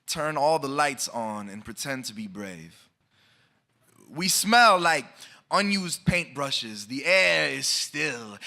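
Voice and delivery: measured, rhythmic spoken word delivery; slam poem recitation. Acted. Poet reciting to the audience, rhythmic spoken word. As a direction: perform the poem to a listening room.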